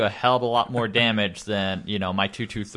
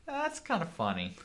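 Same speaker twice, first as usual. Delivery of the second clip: soft amused aside; 11 semitones higher, 10 dB quieter than usual. Retold or imitated. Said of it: "and I was like".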